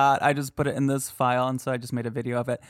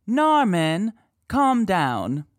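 higher and louder, imitating the ghost; mock EVP voice; 6 semitones higher, 5 dB louder, much slower than usual. Host voicing the ghost's words for listeners, high mock. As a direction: echo the recording's words. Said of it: "They believe it is saying".

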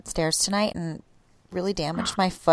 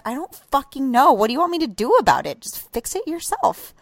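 mock exasperated snapping at husband; half-hearted retold rant; retold angry outburst; 5 semitones higher than usual. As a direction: replay the fight, irritated and exasperated.

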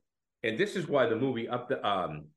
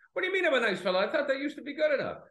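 hammed-up Farrell hurt at being called nice; mock offended; 14 semitones higher, faster than usual. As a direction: whine it back, wounded. Voicing Farrell taking offence.

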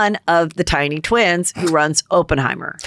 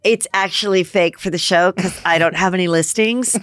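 a hint of a bubbly realtor; lightly voiced Chrishell flirting. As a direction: play Chrishell meeting her future wife. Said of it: "I'm gonna be Chrishell".

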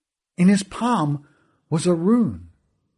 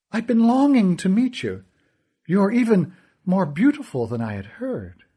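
smug villain; 6 semitones higher than usual. Acted. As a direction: purr the lesson with a smile. Kealty flatters Essa.

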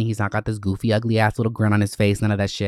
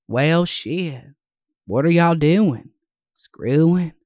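mock surprise; 6 semitones higher, 4 dB louder, much slower than usual.

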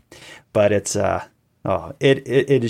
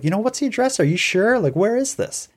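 mock 911 operator; 10 semitones higher than usual. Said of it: "the nine one one operator, is like".

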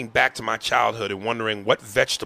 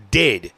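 "did." said louder, as if in caps; stress on DID; 5 dB louder than usual. Shown as a demonstration. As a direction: punch the word "did.". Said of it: "and she put in caps".

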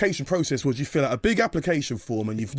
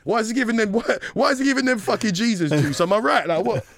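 provocative; 8 semitones higher, 4 dB louder than usual. Retold or imitated. Provocative questioning in group.

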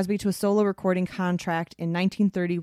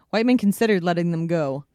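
ordinary talk, nothing marked

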